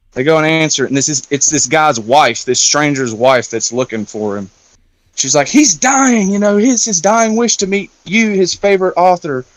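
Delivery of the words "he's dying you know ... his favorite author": higher-pitched, urgent imitation of pleading; retold pleading. Stranger's wife to author about dying husband, pleading. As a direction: imitate a wife making an earnest appeal.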